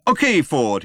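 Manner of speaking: high, loud captain's order; urgent command. A narrator's reading. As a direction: call it out to the crew in a crisis. Pilot barking orders in crisis.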